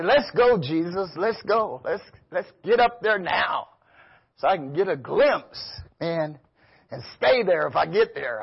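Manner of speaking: a hint of longing urgency; eager plea. Preacher imitating himself begging Jesus to take him up, eager then soft.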